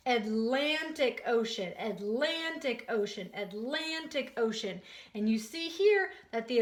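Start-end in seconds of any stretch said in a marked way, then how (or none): 0.1-4.8 "Atlantic Ocean" evenly repeated, stress on LAN; "Atlantic Ocean" in a steady teacher's chant, punching LAN; say-along repetition. Shown as a demonstration. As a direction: lead a class repeating "Atlantic Ocean", falling each time. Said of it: "say that with me three times".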